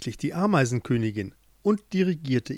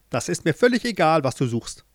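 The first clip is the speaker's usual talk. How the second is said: dismissive queen; 3 semitones higher than usual. Acted.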